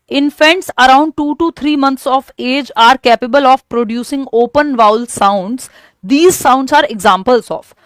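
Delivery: slow, deliberate read-aloud of a question. Acted. Teacher reading an exam question to students, slow and deliberate. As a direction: read each word out slowly for the class.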